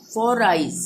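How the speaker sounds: for eyes run together with the r sounded into eyes; for eyes with a linking r carried into the vowel; linked r. Shown as a demonstration. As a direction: say for eyes as one linked unit, foreyes. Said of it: "एक साथ पढ़ेंगे".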